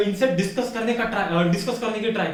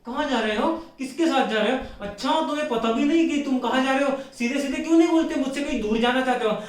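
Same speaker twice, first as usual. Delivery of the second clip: imitation of a suspicious wife's questioning; mock wifely interrogation; mock interrogating wife; 3 semitones higher than usual. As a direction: fire questions like a nagging wife. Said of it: "नहीं तो दस सवाल पूछती".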